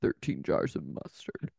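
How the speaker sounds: very low, gruff orders; harsh barking commands. Retold or imitated. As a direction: bark out the shopping list. Penny giving orders.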